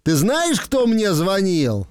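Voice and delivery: slow, teasing "guess who called me"; teasing riddle. Shown as a demonstration. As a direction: draw it out like a sly riddle. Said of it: "сказать ему".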